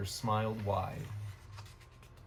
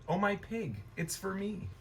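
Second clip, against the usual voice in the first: excited exclaim; 5 semitones higher than usual. Acted. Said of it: "and Esther exclaimed".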